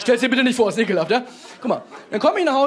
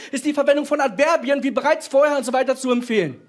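lecturing teacher; 4 semitones higher than usual. Retold or imitated. Teacher lecturing Chris in front of the class, pedantic and higher. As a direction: reel off the rule like a know-it-all teacher.

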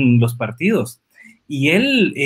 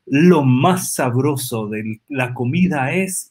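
savoring announcer; 3 semitones lower, slower than usual. Retold or imitated. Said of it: "hay un anuncio donde él dice que algo es exquisito y dice".

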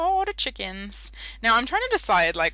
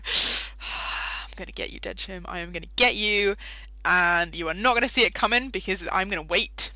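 mock threat; 4 dB louder than usual.

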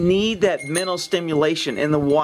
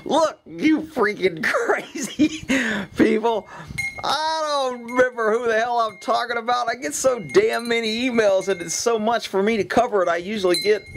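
higher-pitched, exasperated venting; exasperated rant; 6 semitones higher than usual. Real, not acted. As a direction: vent at those crazy emailers. Venting at emailers, exasperated outburst.

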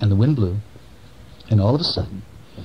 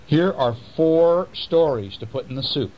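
little mouse; 4 semitones higher than usual. Acted. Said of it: "the little mouse said".

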